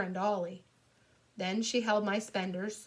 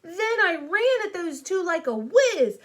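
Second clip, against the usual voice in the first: loud, high, revved-up narration; excited build-up; 8 semitones higher, 8 dB louder than usual. A narrator's reading. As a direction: charge into the big scare.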